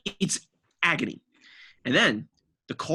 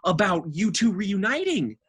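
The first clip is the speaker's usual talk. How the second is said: mock rant; 6 semitones higher than usual. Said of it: "And I'm just like".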